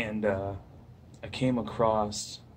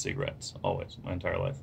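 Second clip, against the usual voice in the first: speaking around pipe stem; pipe in mouth. Real, not acted. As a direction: lips clenched on stem. Seen 0: Pipe held away at first, stem clamped in lips from 0.9s on.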